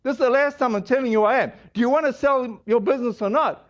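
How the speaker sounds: mildly annoyed retold caller; quick, impatient start, only lightly acted. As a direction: imitate a caller losing patience. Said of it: "he's really getting annoyed".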